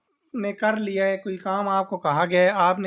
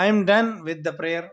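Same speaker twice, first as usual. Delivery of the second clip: very slow, every word set apart; slow model sentence; much slower than usual. Shown as a demonstration. Teacher showing students how to say the prayer line, slowly. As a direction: dictate it for copying. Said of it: "اس طرح آپ کہہ سکتے ہیں".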